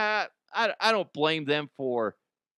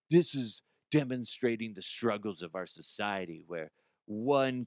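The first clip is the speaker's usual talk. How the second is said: softly fading mock gallery statement; pretentious artist; 3 semitones lower, 5 dB quieter than usual. Comedian mocking an artist's statement, soft fading pretension. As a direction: murmur it like a self-serious artist.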